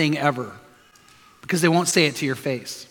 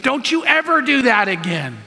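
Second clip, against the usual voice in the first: mild mock scolding, raised pitch; 5 semitones higher than usual. Owner shaking his parrot, mock scolding. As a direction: act out telling off a bird. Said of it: "grabbing the bird and shaking it".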